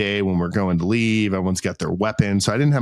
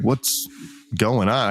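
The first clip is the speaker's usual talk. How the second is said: mock angry; slower than usual. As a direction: imitate a man holding back anger, pausing after "What's". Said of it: "I could tell he's angry".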